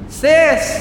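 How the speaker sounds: high, loud call down the well; big sister calling down the well; desperate cry. A narrator's reading. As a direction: cry out into the dark. Reaching into the well.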